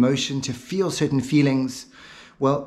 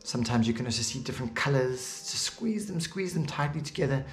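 insistent coaching; 8 dB quieter than usual. Real, not acted. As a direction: press them on through the effort, word after word. Coaching listener to tense the eyelids.

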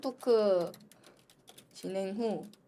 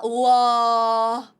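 drawn-out awed wow; long loud wow; 8 dB louder, much slower than usual. Real, not acted.

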